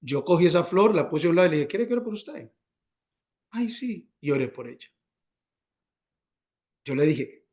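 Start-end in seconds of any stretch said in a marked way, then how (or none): 1.7-2.5 higher, gently asked question; gentle offer. Retold or imitated. Driver offering prayer to crying woman, gentle high question. 3.5-4.1 small, high, soft voice; tearful woman's reply. Retold or imitated. Crying woman accepting a prayer, soft high imitated reply.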